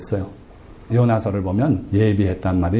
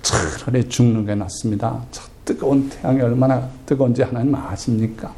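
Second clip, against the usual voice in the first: a touch of defiant grumbling, acted out; mild angry protest. Jonah talking back to God about the hot sun, mildly indignant. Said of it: "화를 내면서 하나님께".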